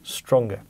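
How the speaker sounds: "stronger" said alone and stressed, with a falling close; emphasized word. Shown as a demonstration. Teacher drilling the exam word "stronger", stressed and falling. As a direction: stress "stronger" so students remember it. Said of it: "I'm emphasizing this".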